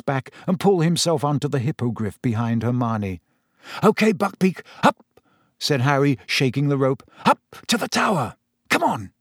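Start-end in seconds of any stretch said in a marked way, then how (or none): 3.8-9.1 Harry geeing Buckbeak up to the tower; urging Harry. Acted. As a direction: spur him upward.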